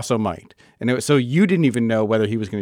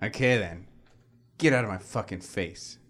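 quiet menace; 4 semitones lower, 9 dB quieter than usual. Acted. Big brother dismissing.

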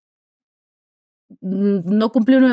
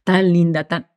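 mocking gossiping people; 3 semitones lower than usual.

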